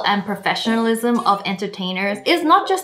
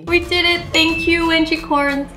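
grateful excitement; 5 semitones higher than usual. Real, not acted. Thanks fans for the award.

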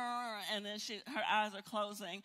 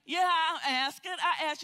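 higher and louder, pressing the point; insistent loud plea; 5 semitones higher, 8 dB louder than usual. Acted. Believer insisting to the Lord that they asked, loud indignant insistence. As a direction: demand an answer, nearly shouting.

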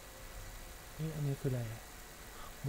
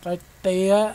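excited shout; 4 semitones higher, 11 dB louder than usual. Real, not acted. Excited game reaction.

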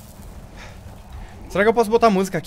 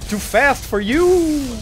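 slow mock taunt; 5 semitones higher, much slower than usual. Taunting the boss.

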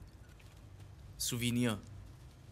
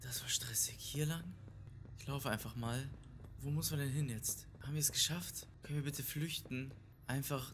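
exhausted hush; 7 dB quieter than usual. Real, not acted. Drained after stressful fight.

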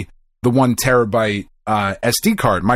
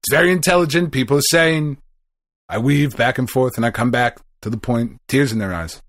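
lightly voiced Trump boasting; boastful rambling politician; Trump impression; 2 semitones higher than usual. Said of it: "Are you watching S N L".

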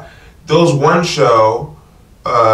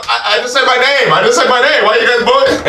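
hurt whine; 7 semitones higher than usual. Pretend. Acting hurt comic being booed.

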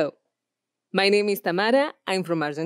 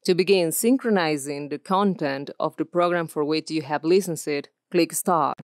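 e-learning narration; 2 semitones lower than usual. Shown as a demonstration. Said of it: "E-learning".

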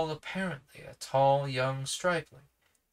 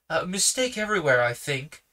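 higher and louder, stern rebuke; 4 semitones higher, 7 dB louder than usual. Acted. Uncle Felix rebukes the policeman, stern and louder. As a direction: come down hard on the policeman. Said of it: "said Uncle Felix sternly".

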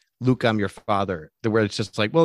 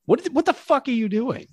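high, incredulous, laughing rant; laughing exasperation; 13 semitones higher than usual. Real, not acted. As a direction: laugh in disbelief. Ranting about lazy joke reuse.

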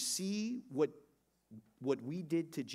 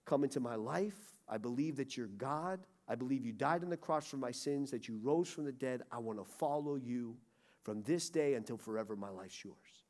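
sincere prayer; 4 semitones lower than usual. Shown as a demonstration. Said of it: "you say".

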